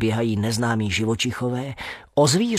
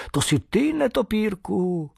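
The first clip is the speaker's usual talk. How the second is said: surprised recognition; 8 semitones higher than usual. Acted.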